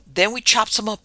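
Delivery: put-on excited boy hatching a scheme; enthused. A narrator's reading. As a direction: eagerly pitch the gruesome plan. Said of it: "I enthused".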